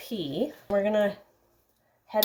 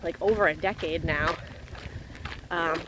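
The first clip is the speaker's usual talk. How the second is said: talking mid-jog; speaking while out running. Real, not acted. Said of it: "Cruising along at an eleven thirty pace".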